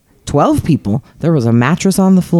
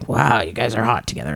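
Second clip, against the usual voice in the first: impressed onlooker; 7 dB quieter than usual. Retold or imitated. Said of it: "And then they'd say".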